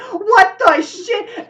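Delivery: high, loud, drawn-out disbelief; acted shocked yell. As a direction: cry out slowly in shock. Driver facing a gun.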